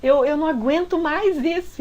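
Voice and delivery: high, loud exasperated yelling at her; fed up, push her away with your voice; angry boyfriend shouting. Retold or imitated. Boyfriend yelling at the kneeling girlfriend in the street, high and loud. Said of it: "Ele gritava".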